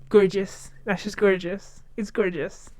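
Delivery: gorgeous in a put-on American accent; lightly affected American catchphrase. Shown as a demonstration. Showing viewers a new catchphrase, in an American accent. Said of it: "then recently it's been".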